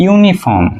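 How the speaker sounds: ইউনিফর্ম said slowly, opening on a clear yoo; yoo sound. Shown as a demonstration. Teacher slowly showing the yoo sound in ইউনিফর্ম. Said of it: "এটার উচ্চারণ আমরা কি করতেছি".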